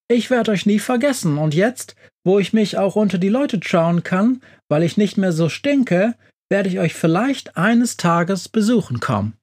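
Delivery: a gentle monster amazed at visitors; puzzled monster. A narrator's reading.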